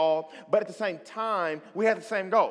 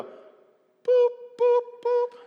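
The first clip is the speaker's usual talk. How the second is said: slow motion; much slower than usual. Retold or imitated. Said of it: "in slow motion".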